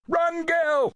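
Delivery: high, loud urgent shout. A narrator's reading. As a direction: yell a warning at the girl. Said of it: "someone shouted".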